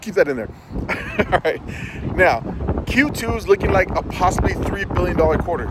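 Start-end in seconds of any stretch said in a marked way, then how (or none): 2.9-5.7 wind on mic. Real, not acted. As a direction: wind noise over the voice. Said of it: "Sorry about the wind".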